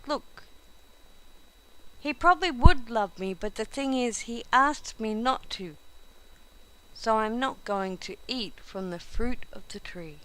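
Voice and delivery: put-on annoyed girl telling off a snake. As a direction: push back hard at the pest. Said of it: "getting quite annoyed with the snake".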